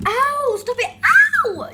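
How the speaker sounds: laughing yelps, slow and loud; laughing through pain. Real, not acted. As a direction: squeal and laugh while bitten. Pet biting her.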